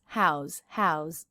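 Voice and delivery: "how's" ending in a buzzing z; voiced Z ending. Shown as a demonstration. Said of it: "with a Z sound".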